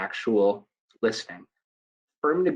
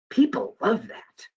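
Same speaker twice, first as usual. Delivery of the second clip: sarcastic; 9 semitones higher, slower than usual. Acted. Sarcastic remark.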